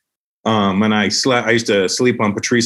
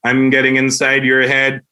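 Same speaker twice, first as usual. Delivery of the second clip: eerie catchphrase; 3 semitones higher than usual. Retold or imitated. Imitating Wild Will catchphrase.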